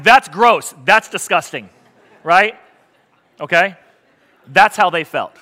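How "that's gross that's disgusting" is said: mock disgust. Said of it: "Your visceral reaction that was like".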